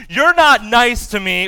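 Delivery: mock childish complaint; complaining child. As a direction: imitate a kid's grievance. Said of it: "have said a few times".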